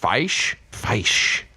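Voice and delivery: "Feish" with the long I of sci-fi; "Feish" asked, then settled, long I. Shown as a demonstration. Host repeats the new plural, "Feish" with a long I. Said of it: "pronounced as though with a Y, like in sci-fi".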